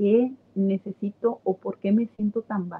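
plain

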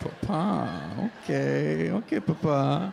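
put-on moans. Acting out bedroom talk for a laughing audience, mock moaning.

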